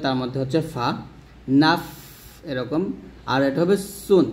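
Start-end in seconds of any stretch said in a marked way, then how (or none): 1.6-1.8 নাফ ending in a long airy f; breathed-out final f. Shown as a demonstration. Teacher showing the sukun rule, airy final f. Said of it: "বাতাস বের করতে হয়". 4.0-4.3 সুন with a thin, light s; thin sin. Shown as a demonstration. Teacher showing the letter sin, thin s. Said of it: "সিনের উচ্চারণটা পাতলা হবে".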